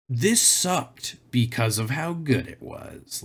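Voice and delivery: slow, put-on fake-out delivery; mock bamboozle. Mimicking a commenter who baffles people, mock bamboozle. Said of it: "like, the bamboozle where they're like".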